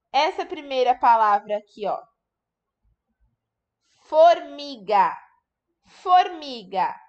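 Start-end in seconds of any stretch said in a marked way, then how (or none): 4.0-6.9 Formiga said slowly, each syllable clear; slow dictation. Shown as a demonstration. Teacher dictating a word to children, slowly. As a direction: spell it out for the kids. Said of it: "Qual é a sílaba que está faltando".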